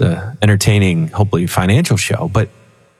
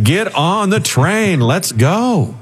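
devil duck urging; 9 semitones higher, slower than usual. Retold or imitated. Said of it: "He's like".

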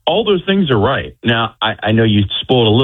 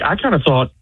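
ordinary talk, nothing marked

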